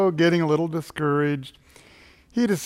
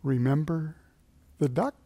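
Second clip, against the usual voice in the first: hushed soft whisper; 7 dB quieter than usual. A narrator's reading. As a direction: lean in and whisper the threat. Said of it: "she whispered again".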